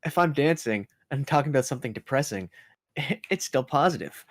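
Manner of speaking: upbeat, fast, as if dancing; chirpy bounce while talking about gloom. Pretend. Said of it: "the meme where somebody's dancing".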